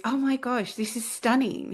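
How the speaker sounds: high, delighted imitation of a stranger; mock-gush over the earring; gushing jeweler.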